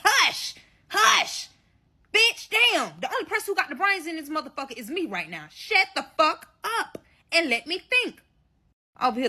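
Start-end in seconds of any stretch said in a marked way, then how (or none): 0.0-3.0 exasperated shush. Retold or imitated. Shushing the annoying friend. 5.5-8.2 irritated snap. Retold or imitated. Telling friend to shut up.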